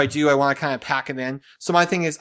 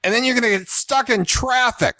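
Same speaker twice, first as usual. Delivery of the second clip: higher, hammed-up gangster warnings; mock New York thug; 6 semitones higher than usual. Husband mimicking Jen's list of dangers, mock thug voice. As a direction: list the dangers like a mafia heavy. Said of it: "Jen has turned into, like, thug".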